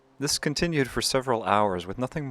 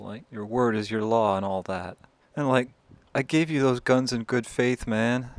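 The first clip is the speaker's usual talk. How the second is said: scared pleading; 3 semitones higher, 4 dB louder than usual. Acted. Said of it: "he gets scared now".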